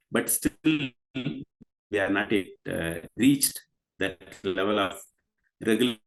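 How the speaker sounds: choppy, breaking-up call audio; scrambled voice. Real, not acted. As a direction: voice cutting in and out on a bad line. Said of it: "I think the connection is cutting just a little bit".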